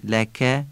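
لکه with a crisp, light k; sharp kaf. Shown as a demonstration.

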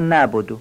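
نعبد said wrongly as "naabodo"; نعبد with no throat sound; dropped ayn. Shown as a demonstration. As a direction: glide over the ayn in نعبد. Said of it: "عین نعبد رو نمیگن".

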